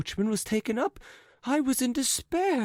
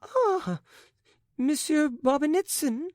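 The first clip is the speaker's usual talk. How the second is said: light, high-pitched twitter of a society lady; a lightly voiced twittering lady; 5 semitones higher than usual. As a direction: chirp the greeting brightly. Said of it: "twittered the lady".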